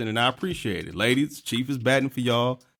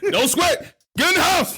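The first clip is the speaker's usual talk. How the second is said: laughing mock; 3 dB louder than usual. Mocking a nervous man.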